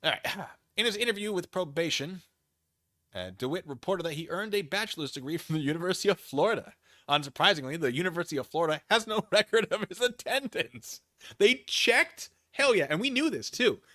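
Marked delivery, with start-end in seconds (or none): 0.8-11.0 brisk, louder reading-out voice for the court filing; reading a document aloud. Acted. 11.4-13.8 much higher and louder, thrilled disbelief; gleeful squeal of vindication; excited. Real, not acted. Gleeful reaction to the filing.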